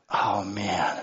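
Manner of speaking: low, soft, defeated sigh of words; deflated groan. Retold or imitated. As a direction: sink down as the car follows you. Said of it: "And I'm going like".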